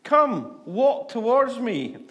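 high, slow, loud beckoning call; hammed-up Jesus calling him over; inviting Jesus. Jesus calls Peter out of the boat, slow and beckoning. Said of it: "And Jesus says".

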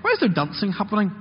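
lightly voiced puzzled older brother; a hint of confused son looking for answers; older brother asking. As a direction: raise the pitch, genuinely puzzled, asking around. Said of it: "he asks us everyone".

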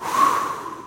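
long exhaled sigh; sigh of relief. Acted. Boy safe with his mom, long relieved sigh. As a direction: let all the fear out in one breath.

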